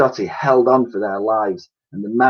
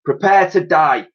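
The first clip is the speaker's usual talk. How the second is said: a louder villain's threat; menacing villain; 5 semitones higher, 5 dB louder than usual. Acted. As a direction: threaten them with relish. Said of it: "said the professor".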